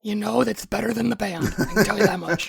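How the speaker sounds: hoarse chain-smoker rasp; rough, scratchy voice after surgery; raspy voice. Real, not acted. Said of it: "this is what his voice sounds like".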